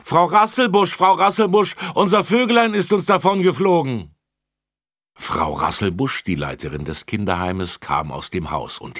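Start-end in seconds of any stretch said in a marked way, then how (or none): 0.0-4.1 very high, loud panicked shouting; children running in, screaming for the home's director. A narrator's reading. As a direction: yell for help while running. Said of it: "schrien sie".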